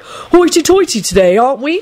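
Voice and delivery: put-on high, hoity old grandad; mock like a channeled grandfather. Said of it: "channeled my grandfather".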